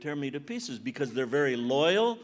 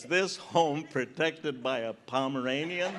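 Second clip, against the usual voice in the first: slow, laughing read of a yard sign; slow amused recitation of a warning sign; mock sign reading; 4 semitones lower than usual. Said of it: "a sign in your yard that says".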